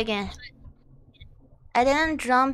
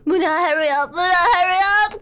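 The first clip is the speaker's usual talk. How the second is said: desperate plea; 2 semitones higher, 4 dB louder than usual. Real, not acted. Begging teammate while dying.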